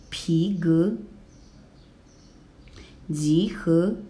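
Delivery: 集合 and 皮革 rising on both syllables; two rising tones. Shown as a demonstration. Teacher modelling 集合 for learners, two rising tones. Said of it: "Now second and second".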